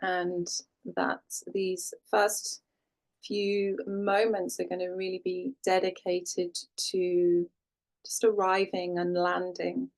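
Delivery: calm, unhurried settling-in voice with long pauses; guided meditation. Real, not acted. Yoga teacher guiding class to land and breathe, calm meditation voice. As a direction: ease the listener gently into stillness, leaving space between phrases.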